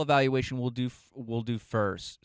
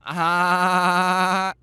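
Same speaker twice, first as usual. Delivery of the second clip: laughing through the word; 7 semitones higher, 11 dB louder than usual. Real, not acted. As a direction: laugh as you speak. Laughs at own joke.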